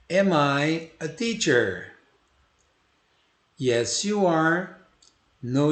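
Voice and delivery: slow, clear question-and-answer drill; slow repeat-after-me drill. Shown as a demonstration. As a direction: model each line slowly for the class to repeat. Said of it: "vamos repetir juntos".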